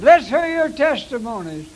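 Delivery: announcing call. Shown as a demonstration. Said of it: "That's the way I said it".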